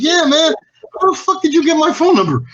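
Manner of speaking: high-pitched mock outrage; mock indignant. Demanding of a caller how he got the number. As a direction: act out being fed up with the caller.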